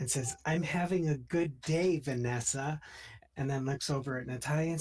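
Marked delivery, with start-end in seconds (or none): 0.4-2.8 bubbly cheer. Acted. Ivy bubbly greeting to Vanessa.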